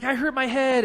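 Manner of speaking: imitated crying kid. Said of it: "another kid comes up to me crying".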